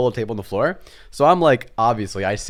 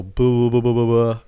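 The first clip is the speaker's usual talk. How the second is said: loud, monotone string of boos; pestering little-brother noises, louder; playful pestering; 5 dB louder than usual. Retold or imitated. Kid brother bugging his sister at her computer, playful pestering.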